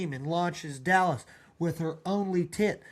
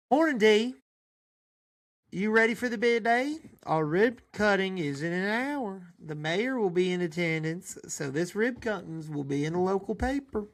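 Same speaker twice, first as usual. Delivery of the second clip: receptionist; 2 semitones higher than usual. Acted. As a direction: chirp the morning news. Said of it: "The receptionist Laura".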